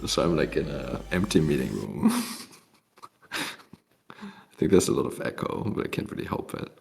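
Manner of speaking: echoey empty room sound; cave echo. Real, not acted. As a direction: voice echoing in a bare room. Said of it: "people say that I sound like I'm in a cave".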